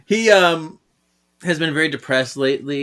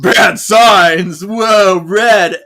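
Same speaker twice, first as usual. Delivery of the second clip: loud, higher, laughing holler; mock alarm; 5 semitones higher, 9 dB louder, much slower than usual. Host announces red warning signs in the story, mock alarm. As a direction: call out in hammed-up alarm.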